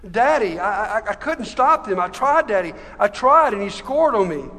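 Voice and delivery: acted anguished protest; distressed childlike plea. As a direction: plead helplessly like an upset child. Preacher as distressed child to God.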